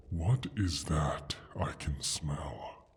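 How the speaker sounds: slow, hushed sniffing whisper; a dragon whispering to itself as it smells a human; suspicious whisper. Acted. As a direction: whisper as you catch the scent.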